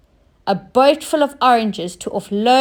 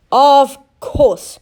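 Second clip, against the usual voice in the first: happy cry; 3 semitones higher, 6 dB louder than usual. Acted. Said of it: "cried Oscar happily".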